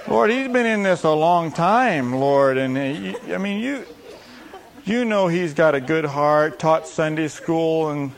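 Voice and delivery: slow, rambling plea to the Lord; mock intercessory prayer. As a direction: plead his case, stretching words out. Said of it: "how we would have prayed for the leper".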